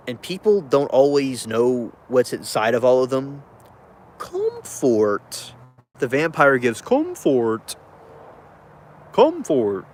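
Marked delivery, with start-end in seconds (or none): 4.2-9.9 dramatic vampire. Pretend.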